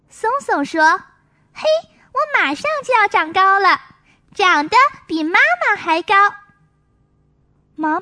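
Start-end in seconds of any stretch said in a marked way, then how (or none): 1.5-6.1 put-on quicker, eager little boy; excited child. Songsong at the mirror, excited child voice. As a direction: bubble over with excitement.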